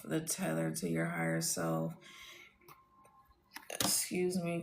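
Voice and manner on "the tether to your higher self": words pushed out through a burp. Real, not acted. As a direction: talk through a small burp. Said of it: "confirmation burp".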